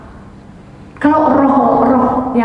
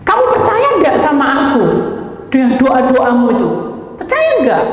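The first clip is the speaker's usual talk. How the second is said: higher and louder, pressing the question; an insistent divine challenge, pitched up high; 6 semitones higher, 4 dB louder than usual. Retold or imitated. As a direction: demand an answer, rising to the end. God presses the question again.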